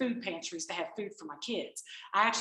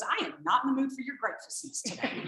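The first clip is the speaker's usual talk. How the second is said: grumpy husband; 3 semitones higher than usual. Retold or imitated. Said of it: "He goes".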